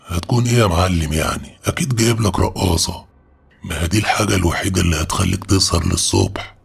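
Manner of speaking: teasing jibe, lifted a little; mocking. Omar teasing his friend about a secret gift, mocking. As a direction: rib a friend with a knowing answer. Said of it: "عمر رد وقتها بتريقة".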